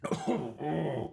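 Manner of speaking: sharp high yelp of shock; startled gasp. Acted. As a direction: jolt as the moonshine hits. Reacts to strong moonshine.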